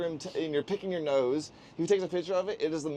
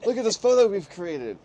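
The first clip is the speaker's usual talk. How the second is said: higher, louder awed praise; light imitation of awe; awed photographer; 5 semitones higher, 4 dB louder than usual. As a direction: marvel at the model. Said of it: "he's like".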